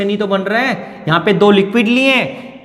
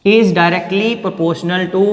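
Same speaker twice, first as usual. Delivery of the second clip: very slow and deliberate, each word spaced; slow dictation; much slower than usual. Shown as a demonstration. Chemistry teacher dictating the law to students, slow and spaced. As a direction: dictate it so the class can copy.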